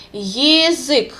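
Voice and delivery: Язык with the first vowel reduced to yi, not ya. Shown as a demonstration. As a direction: say Язык starting with a light unstressed yi. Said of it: "kind of yi sound instead of ya".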